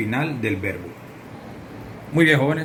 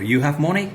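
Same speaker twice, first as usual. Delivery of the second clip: "You have money" with "money" rising like a question; questioning rise; 2 semitones higher than usual. Shown as a demonstration. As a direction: make the statement "You have money" sound asked. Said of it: "eso sonó mucha pregunta".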